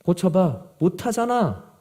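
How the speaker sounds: mock needling of the disciples, pitch lifted; lightly acted badgering; pressing challenge. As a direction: push them with a retold taunt. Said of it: "제자들을 막 몰아붙이고".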